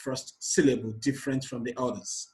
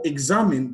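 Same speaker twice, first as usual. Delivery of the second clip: examine with a louder middle, ex-AM-ine; stress on second syllable; 5 dB louder than usual. Shown as a demonstration. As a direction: hit the AM of examine. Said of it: "on the second syllable".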